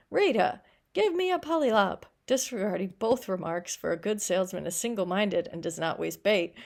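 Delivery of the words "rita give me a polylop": put-on higher and louder, insistent child; demanding little girl. A narrator's reading. Little girl demanding candy from the robot, high and insistent. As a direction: whine it like a girl who wants candy.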